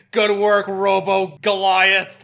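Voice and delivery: robot voice. Pretend. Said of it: "in our robot voices".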